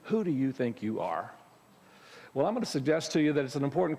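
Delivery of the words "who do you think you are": a mild, challenging put-down; understated scolding who do you think you are; accusing tone. Shown as a demonstration. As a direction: toss it like a light challenge. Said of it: "say that to you in that tone of voice".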